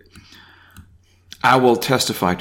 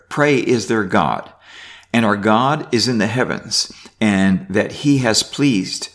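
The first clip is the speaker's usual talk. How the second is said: raised, measured Bible reading; reading scripture aloud. Acted. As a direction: read the psalm out to the class. Reads psalm aloud.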